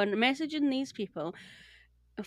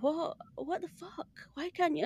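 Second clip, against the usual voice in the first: exasperated disbelief; 6 semitones higher, 6 dB quieter than usual. Retold or imitated. Retelling exasperation at support agent.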